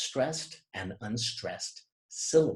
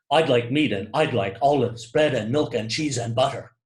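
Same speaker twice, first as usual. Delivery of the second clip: even beat on "meat", "olives", "bread", "milk", "cheese", "butter"; regular stress pattern; 5 dB louder than usual. Shown as a demonstration. Customer places deli order, stressing "bread", "milk", "cheese" in rhythm. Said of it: "there's a regularity in the sequence of stressed".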